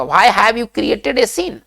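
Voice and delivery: each English word spaced out very slowly; slow dictation. Shown as a demonstration. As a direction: spell it out slowly for the class to repeat. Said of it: "ये कैसे बोलेगा".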